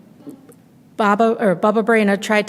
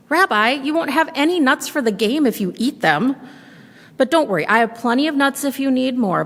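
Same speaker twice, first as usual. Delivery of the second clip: put-on a higher, sweet old granny voice; old woman welcoming a guest at the door, higher and sweet; old grandmother voice; 5 semitones higher than usual. Baba Brena at dreidel game.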